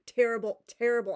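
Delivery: loud exasperated "terrible". Real, not acted. Ranting about the terrible book.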